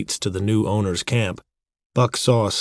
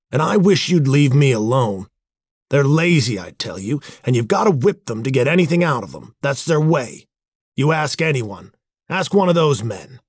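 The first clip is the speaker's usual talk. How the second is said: irritated sneer, raised pitch and level; 5 semitones higher, 4 dB louder than usual. A narrator's reading. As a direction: snap back scornfully at a sister. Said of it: "her brother sneered".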